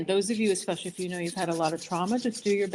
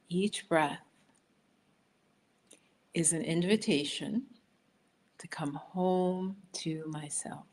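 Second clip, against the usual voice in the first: slow affirmation; slower than usual. Shown as a demonstration. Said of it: "So repeat that after me".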